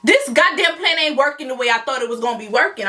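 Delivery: retold indignation, mildly heated; a touch of exasperated anger; pissed. Woman whose plan backfired, mildly pissed. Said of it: "I was so pissed".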